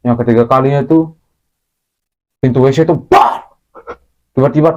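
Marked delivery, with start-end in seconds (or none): 3.0-3.5 sudden door bang done by voice; abrupt, explosive bang noise; imitated bang.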